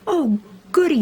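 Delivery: glee, bouncing; delighted little girl. A narrator's reading. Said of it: "said little Nell".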